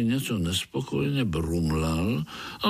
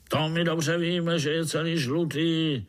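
higher overseer voice, lightly voiced; mock roar; 7 semitones higher than usual. Overseer mocking Artur before the ants, mild mock roar. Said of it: "zařval dozorce".

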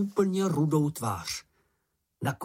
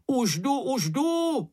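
much higher eager call; 13 semitones higher, slower than usual. A narrator's reading. Moomin calls to the screaming Miss Snork, high eager call. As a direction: shout it while running to help. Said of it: "volal Mumínek".

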